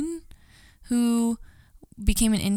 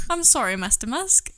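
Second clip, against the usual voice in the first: C-3PO; 3 semitones higher, 3 dB louder than usual. Acted. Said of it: "just a giant C three P O".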